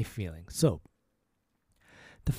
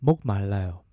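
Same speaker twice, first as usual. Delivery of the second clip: 목말라요 at natural speed; quicker teaching demo; faster 목말라요; 5 semitones lower, much faster than usual. Shown as a demonstration. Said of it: "A little faster".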